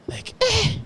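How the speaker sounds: high squeaky eh of dismay; high mock groan. Telling friends about six left, high dismayed eh.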